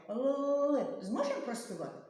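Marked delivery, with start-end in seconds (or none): 0.1-0.8 «Л» held on a higher note; consonant demonstration. Shown as a demonstration. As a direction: try to sing a drawn-out «Л». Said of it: "Ми їх не можемо проспівати". (протяжний звук «Л», ніби співаючи)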